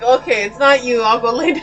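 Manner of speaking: voicing the dog. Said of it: "She's like".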